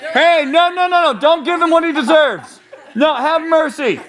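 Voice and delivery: mock peacemaker. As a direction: burst in as a silly peacemaker.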